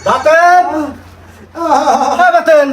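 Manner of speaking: insistent hailing call. Acted. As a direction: call the name out, stretching it. Owner calls out to Baten.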